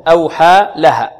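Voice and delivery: "أوحى" then "لها", slowly and apart; separate words. Shown as a demonstration. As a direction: keep a gap between "أوحى" and "لها". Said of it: "مفصولة". ("أوحى لها" مفصولة)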